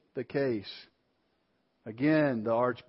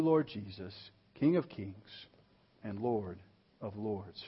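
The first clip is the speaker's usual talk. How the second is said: heartfelt spoken prayer to the Lord; earnest prayer. Real, not acted. Pastor leads the church in closing prayer, earnest and reverent. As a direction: pray it sincerely for the congregation.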